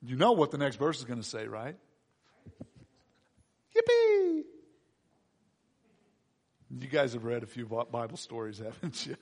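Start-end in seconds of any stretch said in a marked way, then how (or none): 3.7-4.4 high, drawn-out little squeal; held high-pitched cheer; mock cheer. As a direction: squeak out a long yippee.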